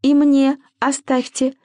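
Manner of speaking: high, slow hissing voice; strained high hiss. A narrator's reading. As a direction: hiss it greedily, drawn out. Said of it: "прошипели рядом".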